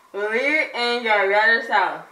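slow, mouthguard-muffled words; wearing a mouthguard. Real, not acted. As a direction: push words past the mouthguard. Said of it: "it's hard to understand".

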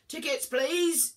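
a rude inspector barking orders. A narrator's reading. Ticket inspector demands tickets, loud bark. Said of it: "he barked".

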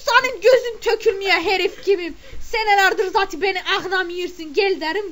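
mock-furious wife scolding her husband; indignant retort. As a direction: tell him off loudly. Snapping back at her husband.

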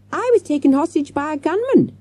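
put-on high, indignant child's shout. A narrator's reading. Hostage girl to hotel manager, shouting. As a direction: call it out as an outraged girl. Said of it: "Jessica shouted at him".

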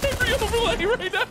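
very high squeal through laughter; hysterical laughter. Real, not acted. Streamer sees every overlay, hysterical high squeal.

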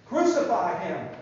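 loud crowd chant; crying mob. Acted. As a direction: shout it like an angry mob. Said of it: "The mob kept crying".

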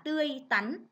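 tươi tắn with a short, clear ăn rhyme in tắn; tươi tắn said as a model reading; careful pronunciation. Shown as a demonstration. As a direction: mark the ăn sound in tươi tắn. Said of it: "chú ý cho cô vần ăn".

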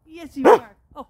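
ordinary talk, nothing marked

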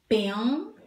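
"Pensamento" split as "Pen... sa... men... to"; careful sounding-out of "Pensamento", pausing after each syllable; slow, by syllables. Shown as a demonstration. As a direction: say "Pensamento" in four beats with clear gaps. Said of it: "Vou falar a palavra devagar".

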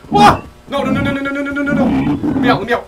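high, loud frantic no's; real panicked shouting. Real, not acted. Player caught off guard by the monster, panicked shouting. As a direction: yell as the chase begins.

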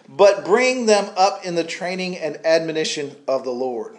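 loud, emphatic pulpit reading; scripture reading. Acted. Preacher reading Ephesians to the congregation, emphatic proclamation. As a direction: proclaim the verse firmly, phrase by phrase.

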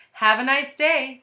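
put-on high, loud child's farewell; Kathy. A narrator's reading. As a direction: sing out a goodbye like a pupil. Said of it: "said Kathy's voice".

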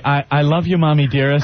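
Mommy Dearest. Retold or imitated. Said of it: "They all know from Mommy Dearest".

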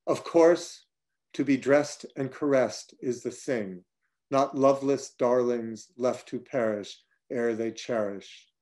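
slow, measured poetry recital; poem reading. Acted. Author ending the reading with his prose poem, measured recital. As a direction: read each line with care.

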